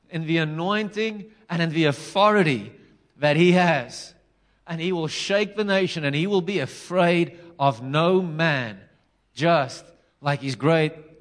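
slow, weighty sermon declaration; measured preacher's build with deliberate pauses; emphatic preaching. Real, not acted. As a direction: proclaim it slowly, stressing each phrase. Preaches the prophetic letter.

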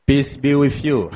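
soft, low-key greeting to the congregation; gentle murmured blessing. Shown as a demonstration. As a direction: say it softly, almost to yourself. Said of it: "tell them".

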